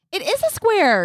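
gasping, slow, high insistence; mock outrage. Real, not acted. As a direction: gasp and insist it's a square. Gasp then insists, arguing glasses.

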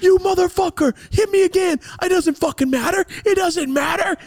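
high, loud shouted dare; wrestler-style taunting. Retold or imitated. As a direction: egg her on at full yell. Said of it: "That's what I was doing to her".

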